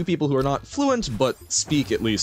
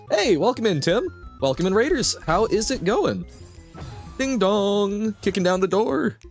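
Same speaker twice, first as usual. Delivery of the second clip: cute anime streamer; 9 semitones higher than usual. Real, not acted. Excited greetings to raiders.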